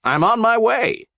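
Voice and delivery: high, bright eager declaration. A narrator's reading. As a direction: launch off excited. Shrek eager.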